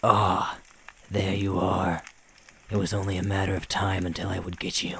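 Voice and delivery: loud gloating demon; a hint of a triumphant demon; demon crying out. A narrator's reading. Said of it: "he cried out".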